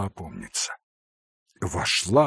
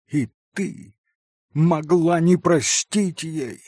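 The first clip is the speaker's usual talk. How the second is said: higher, bitter outcry; Mitya's bitter, higher exclamation; 8 semitones higher, 4 dB louder than usual. Acted. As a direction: cry out in bitter disbelief. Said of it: "горько воскликнул опять Митя".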